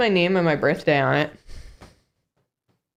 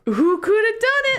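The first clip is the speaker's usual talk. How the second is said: mock mystery. Playing coy mystery.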